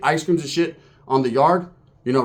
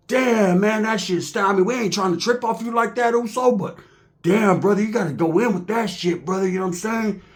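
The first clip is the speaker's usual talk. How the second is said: a hint of a higher complaining voice; lightly voiced Blood; 4 semitones higher than usual. Blood inmate lightly urging the Uso to clean up. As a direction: mildly plead with him to go in. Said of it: "the Bloods was like".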